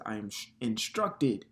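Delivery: "instructed" set apart with emphasis; stress on instructed. Real, not acted. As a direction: lean firmly on the word "instructed". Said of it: "I emphasize one of the words".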